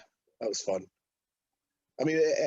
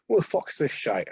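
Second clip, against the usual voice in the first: indignant quote; 4 semitones higher than usual. Retold or imitated. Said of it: "he went".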